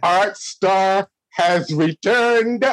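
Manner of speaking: slow drawn-out Rock impression; lightly voiced Rock catchphrase. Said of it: "my really bad rock impression".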